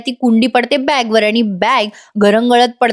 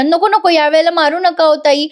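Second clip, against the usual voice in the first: mild mock cry; 6 semitones higher than usual. Maid begs aunt not to hit her, mild mock cry. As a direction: act out a pleading cry at storyteller volume. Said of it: "जोरात ओरडते आशा".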